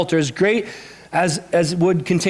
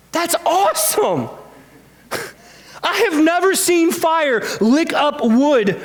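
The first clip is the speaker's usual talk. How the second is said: amazed delight; 8 semitones higher, slower than usual. Real, not acted. Preacher marvels at the fire.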